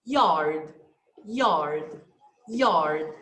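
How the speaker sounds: "Yard" said three times low and deliberate; teacher dictating a listening item; dictation word. Shown as a demonstration. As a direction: read the test word slowly. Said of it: "Number three".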